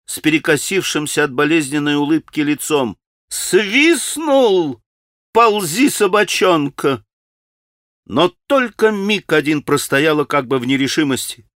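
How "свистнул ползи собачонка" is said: bitter mockery.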